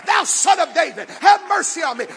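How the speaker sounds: blind man's cry belted out high and loud; shouted cry for mercy. Retold or imitated. Bartimaeus crying out to Jesus over the crowd, shouted plea. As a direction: shout it so he has to hear you. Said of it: "you make sure he knows".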